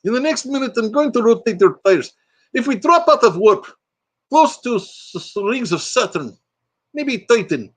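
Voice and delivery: put-on high-pitched eager Russian accent; Chekhov's Russian accent. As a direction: announce it in a comic Russian accent. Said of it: "like Chekhov from the rebooted Star Trek".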